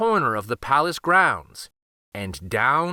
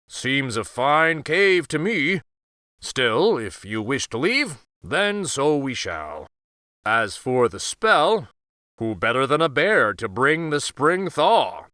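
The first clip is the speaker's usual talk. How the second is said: easygoing bear. Acted. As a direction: rumble along like a big amused animal, taking your time. Bear speaks throughout.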